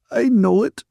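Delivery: very high, loud tearful wail; sobbing. A narrator's reading. Ferguson admits she's being unreasonable, sobbing. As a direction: wail the admission. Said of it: "Ferguson sobbed".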